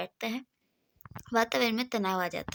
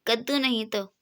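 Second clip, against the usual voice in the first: irritated. Acted. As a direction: snap back mildly annoyed. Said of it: "Gallu चिढ़कर".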